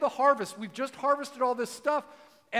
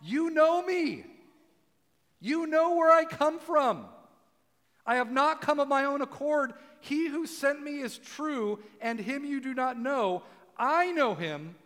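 raised, slow proclamation, higher at first then easing; imitated yelling out; 4 semitones higher than usual. Preacher voicing Jesus yelling out in the temple, mock yell fading. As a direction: call it out high and drawn out, settling gradually. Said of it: "he's yelling out".

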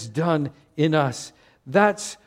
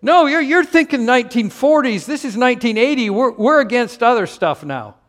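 high, insistent pastor impression; mock-earnest correction from a pastor; pastor's retort; 7 semitones higher, 5 dB louder than usual. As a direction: jump in loudly, pitched up. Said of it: "And my pastor said".

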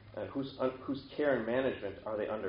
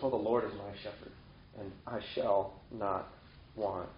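a sheep's quiet, settled contentment; content; 3 semitones lower, 7 dB quieter than usual. Acted. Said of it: "They're content, completely satisfied".

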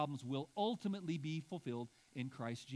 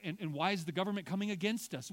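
fast, raised whiny questions; mock complaining; 2 semitones higher, 4 dB louder, much faster than usual. Believer to God, lightly mocking rapid complaints. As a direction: rattle off the grievances in a hammed-up complaint. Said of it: "and thinking".

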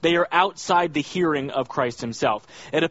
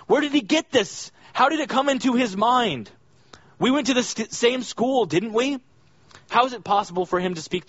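voiced much higher as a doubting townsman; grumbling neighbour who grew up with him; skeptical villager; 7 semitones higher than usual. Voicing skeptical Nazareth villagers.

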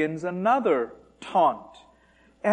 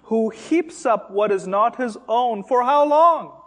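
voicing the Lord; 5 semitones higher, 4 dB louder than usual. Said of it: "And the Lord says".

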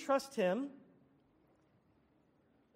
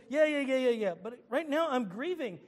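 impatient objection; 4 dB louder than usual. Retold or imitated. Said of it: "And you may say".

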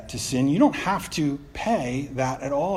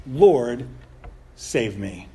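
desperate prayer; 4 semitones lower, 3 dB louder, much slower than usual. Retold or imitated. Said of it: "He prays".

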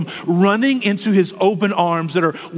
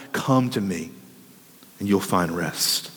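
hushed gentle call; 11 semitones lower, 6 dB quieter than usual. Acted. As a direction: breathe the invitation out tenderly. Gentle Savior calls out, hushed.

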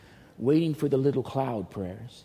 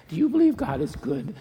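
raised, louder preacher's challenge; challenging call-out; 6 semitones higher, 6 dB louder than usual. Real, not acted. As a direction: press the question hard on the crowd.

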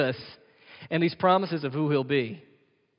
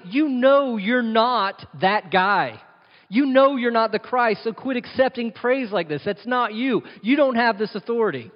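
indignant Pharisee; 5 semitones higher than usual. Retold or imitated. Pharisees rebuke Jesus, acted quote.

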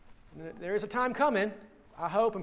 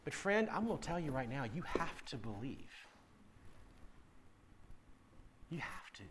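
earnest hush; 7 semitones lower, 14 dB quieter than usual. Real, not acted. Earnest quiet appeal to listeners.

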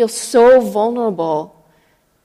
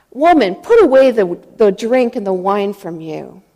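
louder, raised opening on the first word; stern rebuke; 4 dB louder than usual. Retold or imitated. Priest scolds a praying woman, stern rebuke.

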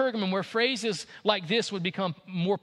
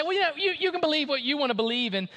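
mocking the relativist. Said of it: "And they say".

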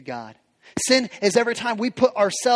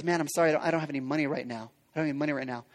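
pleading; 6 semitones lower, 8 dB quieter, much faster than usual. Retold or imitated. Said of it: "The fellow servant says".

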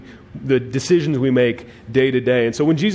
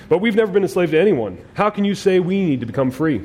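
higher-pitched retort, starting fast; mildly indignant protest; 5 semitones higher, faster than usual. Retold or imitated. The Jews answer Jesus' offer of freedom, mildly indignant. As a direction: protest as if wrongly accused.

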